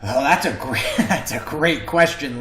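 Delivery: laughing through a compliment to the host; amused, laughing reply to the interviewer. Real, not acted. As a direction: chuckle as you answer. Laughing while answering host.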